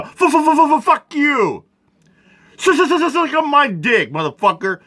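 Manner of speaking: high, machine-gun stuttered cursing; mock stuttering retort. Throwing the pastor's repetitions back at him, mocking. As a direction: stutter each curse back in mockery. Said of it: "That's what I'd be like".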